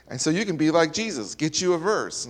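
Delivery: a hint of a Southern pastor's accent, retold. Pastor quoted warning about Satan, light Southern accent. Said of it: "had a southern accent".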